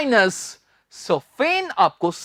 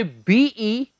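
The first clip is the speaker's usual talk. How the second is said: slow spelling; slower than usual. Shown as a demonstration. Teacher slowly spelling for students to note down. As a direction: slowly spell each letter out. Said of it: "students note कर लीजिए".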